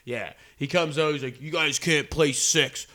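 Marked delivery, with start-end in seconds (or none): 1.4-2.9 a hint of a big stern manager, slow; lightly voiced manager laying down the rule; stern course manager. Retelling the manager scolding the golfers, slow and lightly stern.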